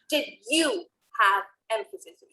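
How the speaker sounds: "you" punched out, the rest falling away; stress on YOU. Shown as a demonstration. Coach replaying the emphasis example, "you" stressed. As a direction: hit "you", then pause slightly. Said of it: "You was the emphasis".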